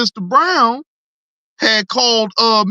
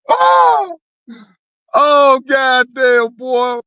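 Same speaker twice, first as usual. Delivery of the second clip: laughing exclaim; 4 semitones higher, 3 dB louder, much slower than usual. Real, not acted. Still laughing at Carlos.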